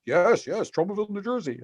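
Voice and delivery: high-pitched put-on voice, eagerly agreeing; Lloyd imitation. Lloyd agreeing about New Jersey, imitated in a high voice. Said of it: "that's my Lloyd imitation".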